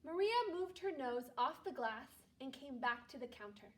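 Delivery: calm read-aloud storytelling voice; story narration. Acted. Teacher reading a Christmas story aloud to her class, calm narration. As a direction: read it gently to a second-grade class.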